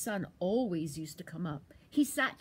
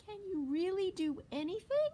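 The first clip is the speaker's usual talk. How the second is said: squeaky, much higher small animal; little squirrel voice; 11 semitones higher than usual. Acted. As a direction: ask like a tiny curious squirrel.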